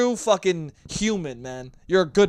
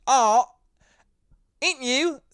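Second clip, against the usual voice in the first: higher, hammed-up Australian accent; 8 semitones higher, 4 dB louder, slower than usual. Shown as a demonstration. Podcaster shows off to listeners, put-on Australian accent. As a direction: show off an exaggerated Aussie accent. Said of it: "I can do an Australian accent".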